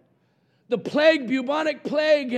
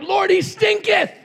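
higher, louder mock protest; disciples protesting; 9 semitones higher, 3 dB louder than usual. Disciples begging Jesus not to open the tomb, higher mock protest. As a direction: squeal it like a squeamish disciple. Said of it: "the disciples were like".

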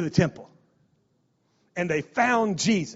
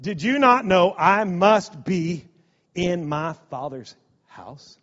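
calm Jesus; slower than usual. Retold or imitated. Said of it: "And Jesus said".

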